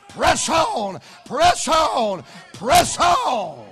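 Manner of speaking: loud repeated shout; rallying shout. Acted. Preacher urging the congregation onward, loud shouts. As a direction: drive each press on home.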